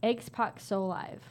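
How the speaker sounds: very slow, puzzling out each chunk; slow sounding-out. Shown as a demonstration. Player reading the nonsense card aloud, slow sounding-out. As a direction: sound the phrase out slowly.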